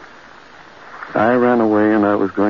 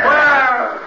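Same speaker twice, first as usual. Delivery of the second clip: frantic calls, much higher and louder; desperate shouting; 3 dB louder than usual. Acted. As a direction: yell her name into the dark night. Searching for Claire in darkness.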